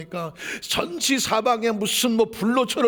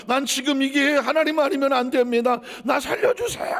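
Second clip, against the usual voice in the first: rising, pleading cry for help; desperate plea; 3 semitones higher than usual. Acted. Desperate person begging for rescue, pleading cry. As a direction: beg as if life depends on it.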